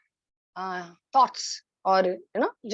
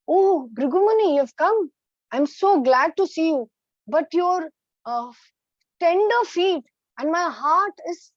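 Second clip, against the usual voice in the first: tender welcome; 5 semitones higher than usual. Acted. Vishnu greets sage tenderly.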